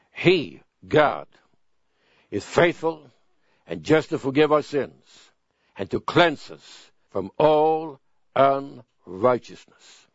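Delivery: slow, deliberate reading of a verse; a preacher slowly reading First John aloud; scripture reading. Shown as a demonstration. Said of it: "It's from First John chapter one".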